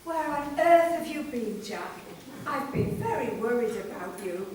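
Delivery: low worried mother voice; low anxious motherly voice; worried mum. Acted. Mummy relieved and worried.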